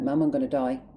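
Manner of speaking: upset, insistent plea to mum; upset retold plea. Telling mum from the hospital bed, upset plea. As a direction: retell the plea, getting upset. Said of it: "sorry, I'm getting upset".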